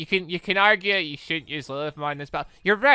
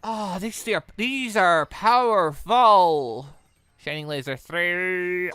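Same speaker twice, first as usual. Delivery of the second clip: usual speaking voice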